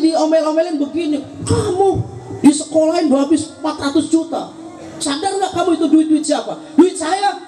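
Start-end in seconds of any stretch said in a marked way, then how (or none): 1.5-6.6 put-on parent scolding the child, raised and half-shouted; mock angry parent nagging about money. 6.7-7.4 shouted cheeky retort, higher; defiant child. Retold or imitated.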